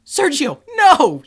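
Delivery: loud exasperated shout. Retold or imitated. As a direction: yell at him to stop. Shouting at friend in story.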